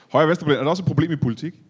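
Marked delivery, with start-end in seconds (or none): 0.1-0.6 laughing. Real, not acted. Repeats guest's phrase amused.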